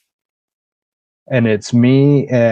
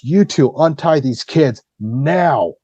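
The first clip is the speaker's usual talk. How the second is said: retold stern order; 5 semitones higher, slower than usual. Acting out officer ordering the guards.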